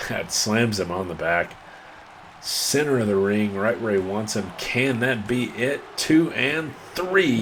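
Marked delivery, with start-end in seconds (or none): 4.6-7.4 slow, rising count, higher pitch; excited pin count. Real, not acted. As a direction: draw out the final count. Calling the pinfall count.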